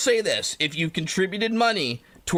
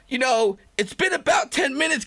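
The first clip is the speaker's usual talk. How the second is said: angry demand; 5 semitones higher than usual. Retold or imitated. Demanding Jell-O from hospital staff.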